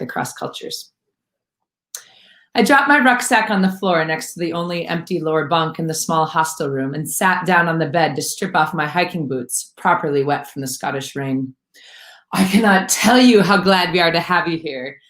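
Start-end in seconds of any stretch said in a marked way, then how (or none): 2.5-11.5 measured, storytelling read of a memoir passage; story narration. A narrator's reading. Author reading her own chapter to listeners, steady storytelling voice. 12.3-15.0 gushing. Acted.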